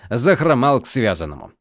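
ordinary delivery, nothing marked

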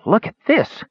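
hushed wonder turned up high, excited; high-pitched amazement; awed. A narrator's reading. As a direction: marvel at it, pitch lifted high. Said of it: "he said in awe".

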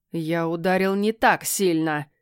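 slow, mocking drawl. Cat slowly mocking the heroine's complaint about his slap. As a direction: stretch it out to tease her. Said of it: "издевательски протянул кот".

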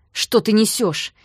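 slow, loud growled question; near growl. Acted. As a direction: growl it at her slowly. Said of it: "почти прорычал он".

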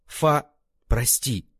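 медленно и упрямо, по слогам; настойчиво повторить извинение, растягивая. A narrator's reading. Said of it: "упрямо повторил брат". (брат упрямо и медленно повторяет извинение)

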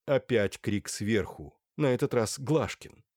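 ordinary delivery, nothing marked

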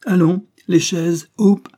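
loud, high showman's command; barked order. A narrator's reading. Banquiste orders the child to the chairs, loud command. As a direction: call out a brusque circus order.

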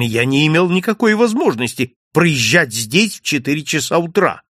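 plain reading voice

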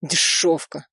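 flat, dull contempt; a lightly voiced cold thug. A narrator's reading. Killer sneering dully at the woman, dull voice. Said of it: "тусклым голосом сказал мужчина".

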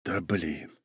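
low, very soft grumble; exasperated mutter. A narrator's reading. Brother hears yet another request, muttering in dismay. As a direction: groan it under your breath. Герой досадует на просьбу.

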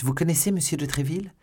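high-pitched, rising question; astonished question. A narrator's reading. Novice asks Milady about Tréville, astonished. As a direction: exclaim it in eager disbelief. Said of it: "s'écria la novice".

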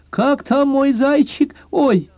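put-on high, slow girlish call, then a startled oh. A narrator's reading. Naked girlfriend greeting her lover, high girlish call. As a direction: call to your lover, then catch yourself. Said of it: "выкрикнула".

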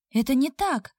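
a touch of indignant protest. Acted. Heroine protesting to the blond, mildly indignant. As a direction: push back, lightly offended. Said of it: "возмутилась".

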